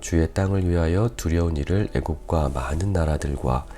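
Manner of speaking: measured, solemn Bible reading, firm on each address to God; scripture reading. Real, not acted. Pastor reads David's prayer to the congregation, formal scripture reading. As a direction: read the passage out to a congregation.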